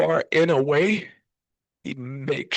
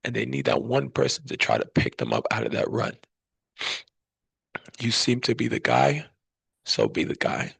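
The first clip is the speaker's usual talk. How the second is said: a hint of a lower fatherly voice, lower, ending almost whispered; imitating Daddy; 5 semitones lower than usual. Son recalls father's words at memorial, lightly voiced father. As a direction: quote Daddy's advice gently, voice dropping low. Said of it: "And Daddy always told me".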